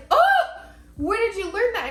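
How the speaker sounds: high, startled parent; gasp, then ask in disbelief; mother startled by her son's line; shocked question. Retold or imitated. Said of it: "and I was like".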